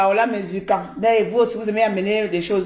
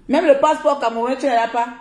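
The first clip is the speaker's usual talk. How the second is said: louder, higher repeat; 4 semitones higher, faster than usual. Shown as a demonstration. The vlogger taunting a rival about her passport, louder. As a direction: hammer the line higher and louder. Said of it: "repeated louder".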